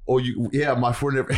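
attempted Wildwood, New Jersey accent; imitated Wildwood accent. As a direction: try a Wildwood local's accent. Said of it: "they had that fucking accent".

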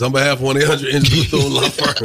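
upbeat sponsor announcement; ad read. Shown as a demonstration. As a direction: read it like a radio ad. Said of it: "I'm just gonna deliver it like this".

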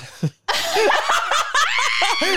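very high, loud burst of laughter; shrieking laugh at the joke. Real, not acted. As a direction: crack up mid-question. Laughing at cohost's setup.

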